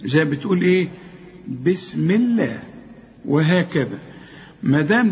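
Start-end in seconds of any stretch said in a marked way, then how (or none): 1.6-2.6 Allah with a thin, light L. Shown as a demonstration. Teacher showing the rule after a kasra, light L in الله. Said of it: "مرقق".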